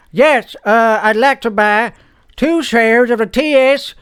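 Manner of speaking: lightly voiced slow buyer; hesitant customer. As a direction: place the order with halting care. Slow customer repeating the order.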